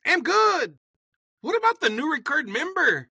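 put-on high, loud boss voice with a Latin accent; a jolly Latin boss asks about the new man. Supreme Master asks about the recruit in a Latin accent. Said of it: "this is my Latin accent".

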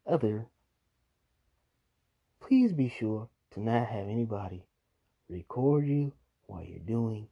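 measured, emphatic public warning; spaced-out host's advisory; PSA announcement. Acted. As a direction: deliver a mock public service announcement. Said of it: "That is a P S A".

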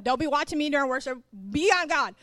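mock scolding. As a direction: snap at him like a big sister. Scolding the man in story.

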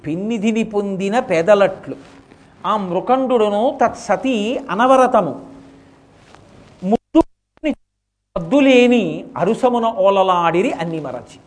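slow, drawn-out verse recital; poem recital. Acted. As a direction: chant the verse slowly with feeling. (నెమ్మదిగా పద్య పఠనం)

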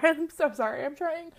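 fighting back tears; trying not to cry; holding back tears. Real, not acted. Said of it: "I'm trying really hard not to cry".

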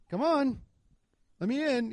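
high, insistent retold appeal; retold pleading. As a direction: act out calling through a car window. Pleading at police car window.

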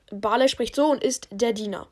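flat robotic monotone; even mechanical servant voice. Shown as a demonstration. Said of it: "also wie eine Roboterstimme einfach".

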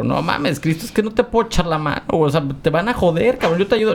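Peter's voice. Retold or imitated. Voicing Peter talking to Jesus.

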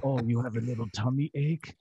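mocking menacing movie-villain accent; Bond villain voice. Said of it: "we always made him sound like a Bond villain".

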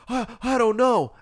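high, slow, helpless mock voice; hapless man. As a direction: imitate a lost man, stretched and high. Acts out hapless man's answer.

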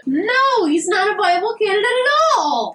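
high, emphatic objection; indignant protest. Real, not acted. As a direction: shoot the idea down hard. Flatly disagreeing with co-host.

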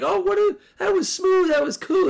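high, breathless wow at the live play; mock awed gush. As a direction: gush like a fan wowed by a slick flip. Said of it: "you're like".

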